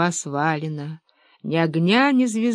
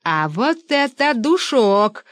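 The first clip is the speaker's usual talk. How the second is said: drawn-out indignant cry, higher; shouting; 4 semitones higher, slower than usual. A narrator's reading. Lev Lvovich catching a whiff of ideology: indignant cry. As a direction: stretch душок out in outrage. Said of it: "закричал Лев Львович".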